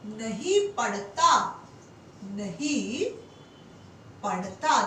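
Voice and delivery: "नहीं" repeated low and set apart before "पढ़ता"; stress on नहीं. Shown as a demonstration. Teacher stressing the negative word for students. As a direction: lean on नहीं, then repeat it slowly. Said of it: "हम क्या कर सकते हैं कि छात्र".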